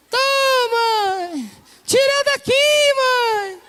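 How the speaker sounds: high, loud, pleading cry to be pulled out; frightened boy's shout; panicked child. Retold or imitated. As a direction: beg mom from the pit in a high voice. Boy trapped in hole.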